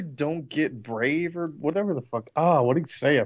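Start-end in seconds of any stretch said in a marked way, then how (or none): 0.0-1.4 lightly voiced villain line, very slow; Krulos impression. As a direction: stretch it out like a cartoon villain's warning.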